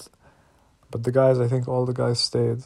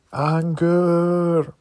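anger; 5 semitones higher, 3 dB louder than usual. Real, not acted. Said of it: "I never tasted anger like this".

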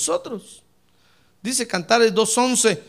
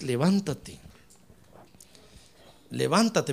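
gentle invitation; 7 semitones lower, 4 dB quieter than usual. Acted. Voices the Lord's gentle invitation.

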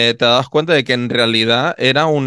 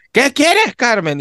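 pitched up, lightly voiced reply; voicing the grandfather; 12 semitones higher, much slower than usual. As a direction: answer her call from afar.

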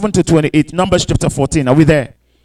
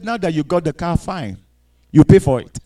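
much softer, lower, letting go; cold quiet resignation; 4 semitones lower, 6 dB quieter than usual. Acted. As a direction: drop it to a cold near-murmur. God coldly lets go.

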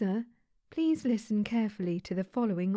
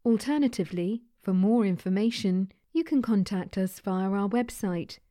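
automated phone menu; 4 dB louder than usual. Acted.

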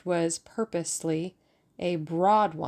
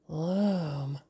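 ecstatic. A narrator's reading. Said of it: "came ecstatically from Albert".

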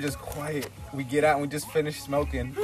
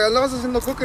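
high, loud mocking scold; an accusing mother; scolding mom; 8 semitones higher, 5 dB louder, much faster than usual. Mom scolds her son about red eyes, loud accusation.

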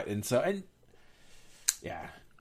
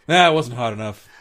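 rude dad; 10 dB louder than usual. Retold or imitated. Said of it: "he's like".

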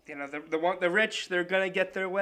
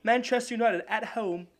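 a hammed-up amateur English sportscaster accent, pitched a bit up; a sports-desk read in a clumsy English accent; a playful, overdone English accent for the soccer segment; 3 semitones higher than usual. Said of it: "do a bit of an English accent".

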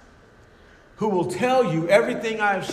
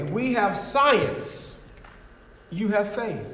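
smug atheist; 4 semitones higher, slower than usual. Acted. Preacher voicing a smug atheist.

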